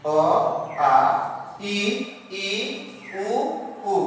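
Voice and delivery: short then long vowel, pair by pair; paired vowel drill. Shown as a demonstration. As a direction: recite the vowels two by two. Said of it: "एक pair में इसको उच्चारण करें".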